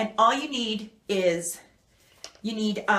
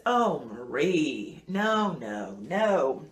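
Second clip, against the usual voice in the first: surgeon's gentle no; 4 semitones lower, much slower than usual. Retold or imitated. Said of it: "And he says".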